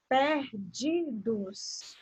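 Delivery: "perdidos" in three drawn-out pieces; syllable by syllable. Shown as a demonstration. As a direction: quietly stretch each syllable of "perdidos". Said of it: "qual é a sílaba tônica?".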